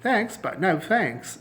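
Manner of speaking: drawn-out sarcastic thanks; dismissive slow refusal. Shown as a demonstration. Teacher demoing an informal brush-off, slow and mocking. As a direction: wave it away slowly. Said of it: "تو یہ ایک style ہے".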